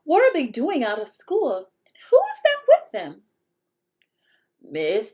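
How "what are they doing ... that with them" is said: high, loud scratchy witch voice; indignant witch voice. Acted. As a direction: rasp out the question. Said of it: "in a scratchy voice".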